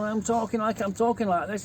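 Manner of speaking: retold Yorkshire-accented chat. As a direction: imitate talking broad Yorkshire to a mate. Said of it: "he was from Yorkshire".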